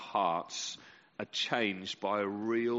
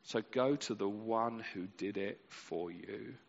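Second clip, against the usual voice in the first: 1 gentle reassurance; 2 semitones lower, 5 dB quieter than usual. Retold or imitated. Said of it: "the writer of the Hebrews says".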